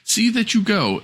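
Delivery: high, sharp order; stern command. Acted. Stepmother orders the girl out, sharp and high. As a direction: push her out the door. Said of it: "said the woman".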